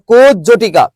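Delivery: কুজ জটিকা divided after kuj, falling at the end; split pronunciation. Shown as a demonstration. Teacher drilling the class, কুজ জটিকা in two parts. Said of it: "কি হবে".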